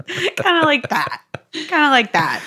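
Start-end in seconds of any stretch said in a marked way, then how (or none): 0.0-1.2 giggling through the words; laughing. Real, not acted. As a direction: say it while laughing.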